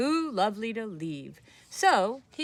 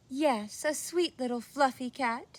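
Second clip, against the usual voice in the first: put-on old woman voice; 5 semitones higher than usual. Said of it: "said the very old woman".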